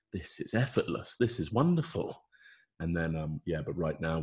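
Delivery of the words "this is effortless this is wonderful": higher-pitched, elated realisation; delighted mock quote. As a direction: act out blissful ease, rising on wonderful. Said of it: "you're like".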